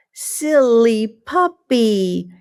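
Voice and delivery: whispered, slow and fond. Acted. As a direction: hush it to the silly puppy. Fond aside to puppy.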